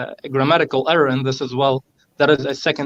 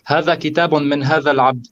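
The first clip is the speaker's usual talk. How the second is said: fast Arabic quote; much faster than usual. Shown as a demonstration. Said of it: "The second هذا did not have to be used".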